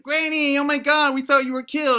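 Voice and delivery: high, loud cry of disbelief; amazed outcry. Acted. Family greeting dead granny's return, loud amazed cry. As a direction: burst out in astonished joy.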